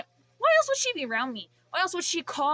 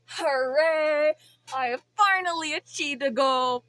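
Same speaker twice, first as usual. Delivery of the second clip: mock cheer; 3 semitones higher, 5 dB louder than usual. Real, not acted. Celebrating sarcastically.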